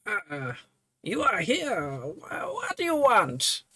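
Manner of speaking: high voice, a whispered aside; nervous cleric caught off guard; startled old priest. Acted. Priest surprised by the intruder, high and hushed.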